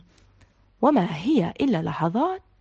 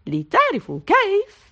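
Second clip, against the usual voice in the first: put-on higher, teasing little girl's voice; playful girl; 10 semitones higher, 4 dB louder than usual. A narrator's reading. Razan teasing her friends with a light playful girl's voice. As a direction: tease them into turning the page. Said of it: "ضحكت رزان وقالت".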